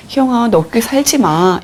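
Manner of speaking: gentle version. Shown as a demonstration. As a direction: say it like a caring friend. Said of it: "이게 아니라요". (다정하게 이름을 부르며)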